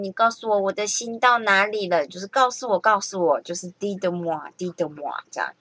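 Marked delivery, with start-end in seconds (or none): 3.7-5.2 "Dites-moi，dites-moi" as tee-tuh-mwa, slowly; French demo of "Dites-moi"; French pronunciation. Shown as a demonstration. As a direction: sound out "Dites-moi" gently. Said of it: "Dites-moi就是告诉我".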